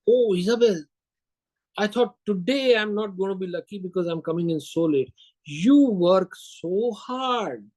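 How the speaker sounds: retold effusive praise, slowing on the key phrase; gushing compliment. Salesman to a secretary working late, gushing compliment. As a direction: lay on the admiration, drawing out the last words. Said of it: "give her a compliment on how hard she's working".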